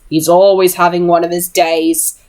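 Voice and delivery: a touch of scorn on always; mildly disgusted, stress always. Acted. Jessamine sneering about Jem to Charlotte, a hint of disgust. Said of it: "Jessamine sounded disgusted".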